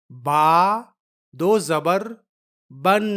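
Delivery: teacher sounding out بن; spelling-out demo. Shown as a demonstration. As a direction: spell it out, then sound بن with a held n. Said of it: "دونوں کی آواز میں".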